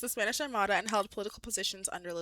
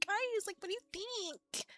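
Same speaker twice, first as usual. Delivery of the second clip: put-on higher Southern country accent, slower at the end; 10 semitones higher, 5 dB quieter, slower than usual. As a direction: ask the winery crew in a howdy-partner Southern accent. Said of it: "howdy partner vibes".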